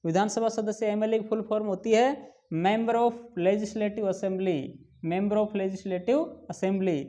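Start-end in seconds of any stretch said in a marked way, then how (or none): 2.6-7.0 Member of Legislative Assembly, each word very slow and distinct; slow spelling out. Shown as a demonstration. Teacher dictating the full form to students, very slowly. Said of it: "जब इसका उच्चारण करके देखे".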